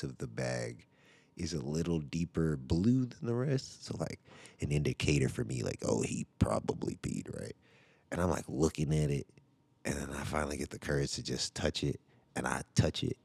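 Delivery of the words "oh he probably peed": breathy low inner thought; hushed thought. Retold or imitated. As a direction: think it under your breath.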